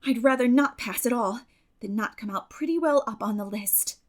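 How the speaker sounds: flashing retort. Acted. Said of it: "flashed Anne".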